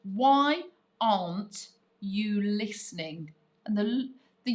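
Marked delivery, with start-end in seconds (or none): 0.0-3.3 "aren't" said slowly and deliberately as one contracted word; slow, careful contracted form. Shown as a demonstration. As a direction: spell out "aren't" in slow, clear speech. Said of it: "You show the drop letter with the apostrophe".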